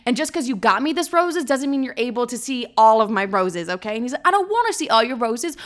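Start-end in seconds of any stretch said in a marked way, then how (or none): 0.0-3.9 retold indignant lecture; irritated telling-off with punched words; more pissed. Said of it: "getting even more pissed". 4.3-5.6 high-pitched mock whine; put-on pleading, pitched up throughout; London pleading. Imitates his excuses in the quarrel.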